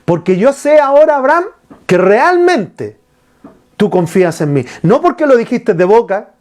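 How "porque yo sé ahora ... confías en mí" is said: emphatic divine voice. Retold or imitated. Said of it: "Dios le dice".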